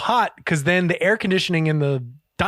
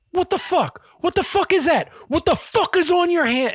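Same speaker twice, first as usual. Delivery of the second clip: mock scream, much higher pitch; Gordon Ramsay; 12 semitones higher than usual. Chef spots waiter's blue bandage, mock screaming. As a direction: imitate a chef shrieking in outrage, without full volume. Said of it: "like, screaming at him".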